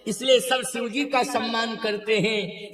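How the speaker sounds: fervent high-pitched preaching. Real, not acted. Preacher declaiming at full pitch.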